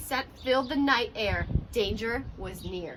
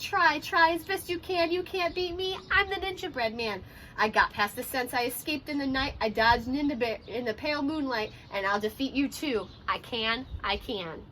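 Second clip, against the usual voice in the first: taunting cookie. Acted. Cookie taunting the Ninja Snake.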